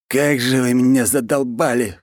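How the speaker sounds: high-pitched fed-up outburst; heated exclamation. Acted. Khan is fed up with his underlings, high exasperated outburst. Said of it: "уже в сердцах воскликнул хан".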